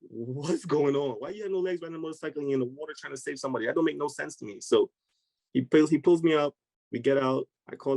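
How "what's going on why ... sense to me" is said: imitating someone who can't make sense of it; baffled tumble of questions; confused disbelief. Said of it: "He was so confused".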